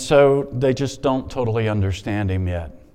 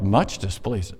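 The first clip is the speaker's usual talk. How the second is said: skeptical echo; 3 semitones lower, 4 dB quieter, slower than usual. Real, not acted. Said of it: "I don't like that translation".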